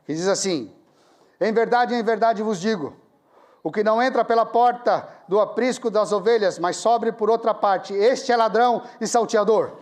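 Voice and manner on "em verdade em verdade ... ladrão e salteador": leitura solene em voz alta, bem projetada; leitura bíblica. Retold or imitated. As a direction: proclamar o versículo pausadamente. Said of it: "Então comecei a ler". (lendo a Bíblia em voz alta, com solenidade)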